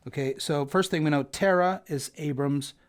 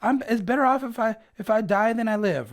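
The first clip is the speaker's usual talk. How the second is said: mocking Jonah; 7 semitones higher, 4 dB louder than usual. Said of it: "He's like".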